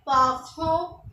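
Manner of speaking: पाखो said slowly as pah-KHO with a throaty French r; पाखो with the French r from the throat; French word parent. Shown as a demonstration. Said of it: "इसको हम बोलते हैं". (French उच्चारण में पाखो)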